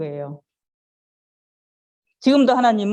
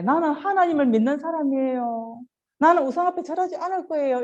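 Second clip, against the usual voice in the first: higher-pitched declaration of faith; firm refusal; 5 semitones higher than usual. Acted. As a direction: declare it like a child standing firm. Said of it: "이렇게 거부할 수 있는 사람". (높은 목소리로 다짐하듯 거부하며)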